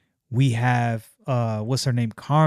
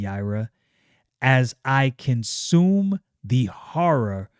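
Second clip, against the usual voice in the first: slow, hungry menace; slow villain. Acted. Magus Numite gloats to Yaira, slow and hungry. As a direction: savour every word. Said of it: "and he says".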